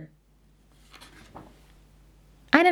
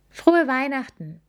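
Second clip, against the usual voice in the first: beaming; 8 semitones higher, 3 dB louder than usual. Acted. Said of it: "sagte Wilma strahlend".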